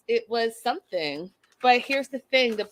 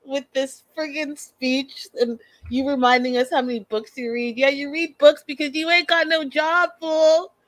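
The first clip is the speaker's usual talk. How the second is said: mocking rant; 3 semitones higher than usual. Real, not acted. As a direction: tear into him with contempt. Mocking Nick's speech, ranting at him.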